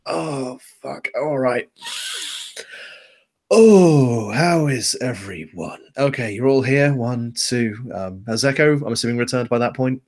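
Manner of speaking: waking up sore and groggy; groggy just woken up. Acted. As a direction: groan awake from a nap. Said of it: "starts to stir in his cot, kind of groans".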